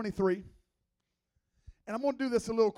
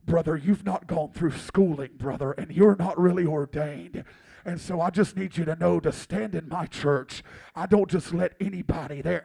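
lower-pitched imitation of an intense pastor; mock-solemn pastor laying down the rules; lightly hammed-up stern shepherd; Pastor Joe; 3 semitones lower, 4 dB louder than usual. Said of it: "he would say things to me like".

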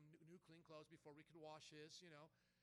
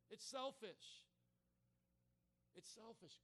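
raised, punchy preacher's rebuke; emphatic preaching; 3 semitones higher, 4 dB louder than usual. Real, not acted. Pastor rebukes church for wanting what we want, emphatic preaching. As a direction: hammer each point home to the congregation.

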